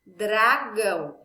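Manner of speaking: dragão lento, sílabas marcadas, um pouco mais alto; dito devagar. Shown as a demonstration. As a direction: pronuncie dragão devagar, o D e o R claros. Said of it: "Por exemplo". (professora pronunciando dragão devagar)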